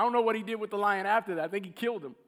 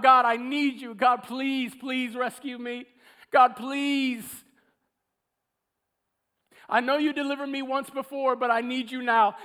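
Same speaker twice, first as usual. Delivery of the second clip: put-on desperate childlike cry; 3 dB louder than usual. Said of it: "He cried out like a little child".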